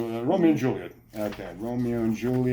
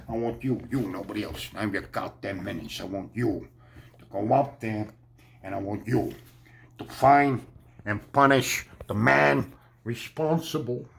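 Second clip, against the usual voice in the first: a hint of a cold mob boss giving orders; Daniel Day-Lewis impression. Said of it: "that was my favorite impression of, Daniel Day-Lewis".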